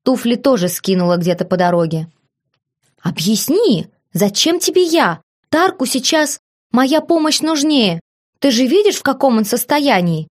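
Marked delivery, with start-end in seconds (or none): 3.0-10.3 indignant protest, much higher; trying to protest. A narrator's reading. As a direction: push back, outraged but unsure. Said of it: "попытался возмутиться Терион".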